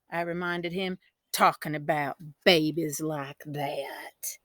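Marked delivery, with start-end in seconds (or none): 1.3-4.4 slow, unvoiced scolding whisper; hush-scold him. A narrator's reading. Girl scolding her brother in a whisper.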